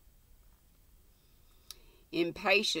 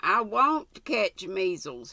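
slow, louder rebellious retort; 5 semitones higher, 6 dB louder than usual. Acted. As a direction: grind it out in defiance. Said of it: "he muttered rebelliously".

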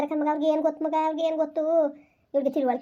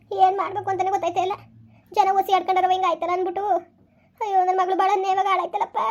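higher, half-crying lament over the daughter; tearful lament; 4 semitones higher than usual. Acted. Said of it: "ಅತ್ತೆ ಸುಮ್ನಿರಿ, ಅಳ್ಬೇಡಿ".

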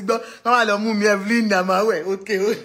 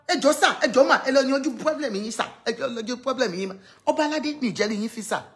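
rising, louder, rapid-fire mock appeal; pleading with the kings, half teasing and quick; 3 semitones higher, 3 dB louder, faster than usual. Begging the kings to sort out their problems, with quick mock pleading.

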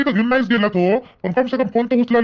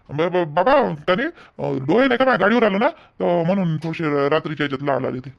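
halting, lowered voice with false starts; stammering excuse; 5 semitones lower than usual. Acted. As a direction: fumble an excuse to a suspicious father. Son stammers excuse for red eyes.

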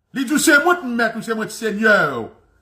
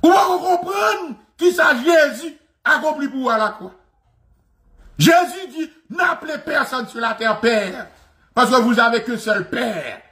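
raised, high-pitched pulpit shout; preaching shout; 4 semitones higher than usual. Real, not acted. Preacher rebuking his flock with a high shout. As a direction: hammer the point home from the pulpit.

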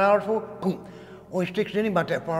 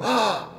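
mock gasp; 5 semitones higher than usual. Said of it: "I can't look up and go".

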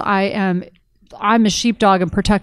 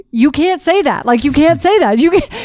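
higher insistent objection; indignant protest; 7 semitones higher than usual. Retold or imitated. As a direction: protest like a stunned mother. Mother protesting daughter's words.

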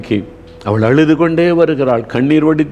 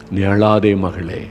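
tender comfort; 5 semitones lower, slower than usual. Acted. Jesus comforts the listener.

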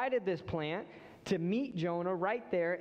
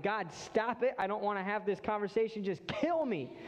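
exasperated Jonah; 5 semitones higher than usual. Retold or imitated.

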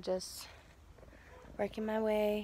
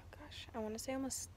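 whisper; 4 semitones higher, 6 dB quieter than usual. Real, not acted. Whispered aside.

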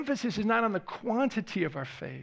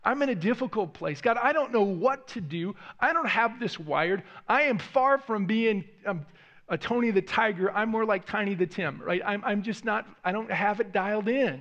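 desperate prayer; 2 semitones higher than usual. Pretend. Voiced desperate prayer to God.

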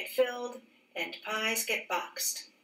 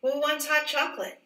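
higher and louder, calling to the crowd; cheerful offer; 7 semitones higher, 5 dB louder than usual. Acted. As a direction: lift the voice to offer everyone a cup. Manager offers cups to crowd.

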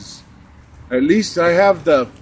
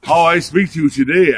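mock solemn voice. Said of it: "I have to talk like this and spiritually".

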